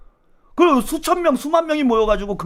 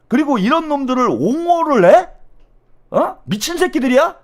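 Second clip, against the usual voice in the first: indignant, higher-pitched challenge; outraged; 5 semitones higher than usual. Real, not acted. Host berating those who defend the aides, outraged. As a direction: demand an answer, really incensed.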